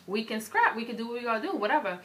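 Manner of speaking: loud, high, fired-up challenge to meet after school; calling her out to the parking lot, tough and loud; retold challenge to fight. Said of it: "So I was like".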